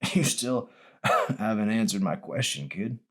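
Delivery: put-on old man chuckling through the words; lightly voiced old man, amused; laughing old man. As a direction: tease the kid through a laugh.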